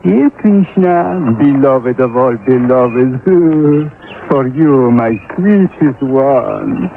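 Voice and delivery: fond cooing to a bird. Acted. Cooing to his pet bird.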